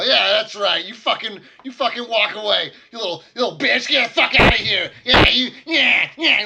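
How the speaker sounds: high, loud screaming insults; furious goblin screaming. Acted. Goblin screams abuse at the gnome walking away, furious. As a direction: scream her rage at the retreating gnome. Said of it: "is yelling at you".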